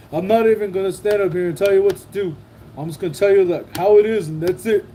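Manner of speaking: fast, puffed-up parody of a speech; mock pompous speech. Streamer mimicking a politician's speech, fast and mocking. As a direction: mimic a self-important speaker, mocking him. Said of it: "then I was like".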